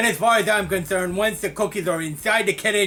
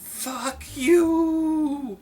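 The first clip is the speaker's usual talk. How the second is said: mock snarl; 8 semitones higher than usual. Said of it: "he's like".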